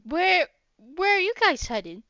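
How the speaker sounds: eager to meet new friends, bright and up; peppy excited. Acted. Bunny knight eagerly asks the travellers, excited. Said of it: "he kinda peps up".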